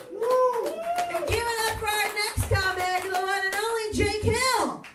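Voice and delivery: hyped host intro. Real, not acted. MC introducing next comic.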